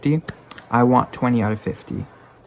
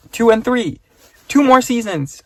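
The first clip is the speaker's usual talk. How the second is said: excited; 11 semitones higher, 6 dB louder than usual. Real, not acted. Excited about the renewal.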